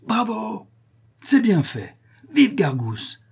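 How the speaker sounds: high-pitched bravos, moderately voiced; enthusiastic cheering. A narrator's reading. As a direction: applaud the hero, pitch lifted. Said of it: "crièrent les détenus avec enthousiasme".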